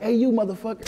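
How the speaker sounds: high-pitched imitation of a challenger; retold hostile callout. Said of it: "he's like".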